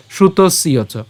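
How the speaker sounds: "শ্রুতস্য চ" run together, s gliding into y; joined pronunciation. Shown as a demonstration. Teacher saying it all together, "শ্রুতস্য চ" joined. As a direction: link "শ্রুতস্য চ" as one phrase. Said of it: "উচ্চারণ করবো আমরা একসাথে".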